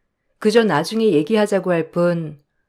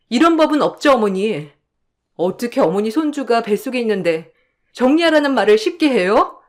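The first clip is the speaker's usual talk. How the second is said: distraught wife; 2 semitones higher than usual. Acted. Pregnant wife protesting to husband and mother-in-law, distraught. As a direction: plead and accuse in rising distress.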